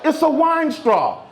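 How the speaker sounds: high, slow mocking son voice; son's voice. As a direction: mimic the kid high and proud. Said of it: "I said".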